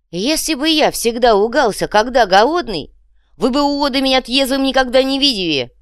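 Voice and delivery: high, loud indignant shout; hungry goblin yelling back at his mates; loud hungry rant. Acted. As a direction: yell it at the idiots.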